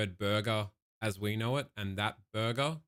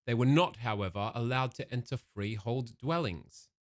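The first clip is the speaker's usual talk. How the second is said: read-aloud narration. A narrator's reading. Reads history text aloud.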